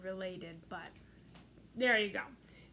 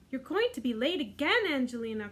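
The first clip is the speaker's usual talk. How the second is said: mild cry; 4 dB louder than usual. Acted. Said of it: "cried Missus Mouseling".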